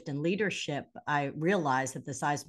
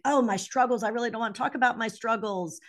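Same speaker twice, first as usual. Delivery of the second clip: mock reluctance; 4 semitones higher, faster than usual. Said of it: "you think".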